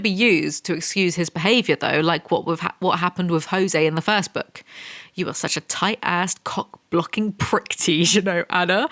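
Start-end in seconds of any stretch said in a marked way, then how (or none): 5.1-8.9 slow, a hint of a menacing villain; through clenched teeth. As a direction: grit the teeth and spit it slowly. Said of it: "he whispers through clenched teeth".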